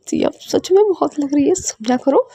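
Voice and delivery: laughing through pain. Acted. Partner begging Siya to ease up, laughing plea. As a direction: complain of hurt while holding back a laugh. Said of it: "तो आप हंस क्यों रहे हो".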